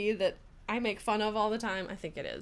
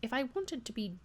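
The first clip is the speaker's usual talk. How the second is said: the wrong character's voice, softer; another character's voice; 5 dB quieter than usual. Acted. Ashley's line misread in the judge's voice, softer. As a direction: slip into his voice by mistake. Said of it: "I was doing his voice".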